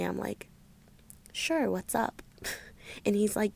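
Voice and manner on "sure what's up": casual, composed reply; feigned calm. Retold or imitated. Texting him back while secretly panicking, calm. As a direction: play it calm and collected. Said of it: "I text him calmly".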